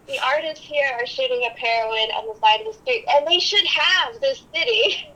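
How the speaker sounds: laughing through a quote. Retold or imitated. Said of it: "He's like".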